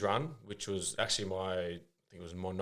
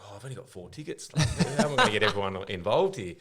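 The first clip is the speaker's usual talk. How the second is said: laughing through a mock fret about tickets; half-laughing at his own panic; laughing retold worry; 3 dB louder than usual. Young player laughing while fretting over four tickets. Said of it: "And then I was like".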